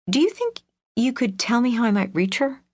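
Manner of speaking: sweet, polite asking; sweetly. Acted. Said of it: "Iris asked sweetly".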